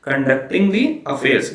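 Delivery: "Conducting the affairs" spaced out very slowly, each word weighted; slow keyword emphasis. Shown as a demonstration. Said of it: "ये सब कुछ कुछ keywords हैं". ("Conducting the affairs" बहुत धीरे, हर शब्द पर ज़ोर)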